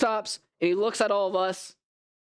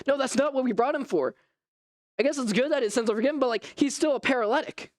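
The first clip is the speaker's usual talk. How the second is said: mild frustration; 7 semitones higher than usual. Retold or imitated. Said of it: "I started getting frustrated".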